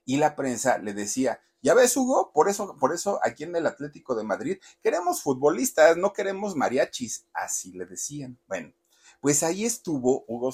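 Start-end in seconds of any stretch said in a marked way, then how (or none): 1.6-7.3 press taunt. Retold or imitated.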